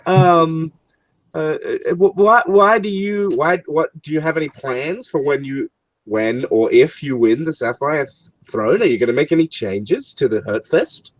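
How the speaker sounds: bright TV interviewer hyping the match; wrestling reporter. Acted. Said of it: "She's like".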